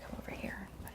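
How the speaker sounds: soft whisper to a nervous bunny. Real, not acted. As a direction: coax it over in a hush. Coaxing a nervous rabbit.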